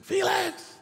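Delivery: high ringing call of a name; God calling out. Acted. God trying to get the preacher's attention, high call.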